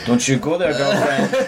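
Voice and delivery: lightly voiced sassy retort; mock-sassy put-down through a laugh; a hint of playful sass; sassy woman. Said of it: "I ain't no sassy black woman".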